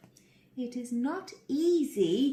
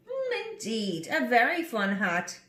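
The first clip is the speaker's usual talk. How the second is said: mischievous monkeys; 2 semitones higher than usual. Acted. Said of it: "cried the monkeys".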